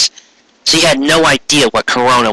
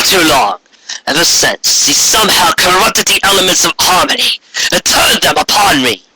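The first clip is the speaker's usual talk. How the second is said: regal alicorn queen; 4 semitones higher than usual. Acted. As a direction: speak like an imperious queen granting favor. Corona's proclamation.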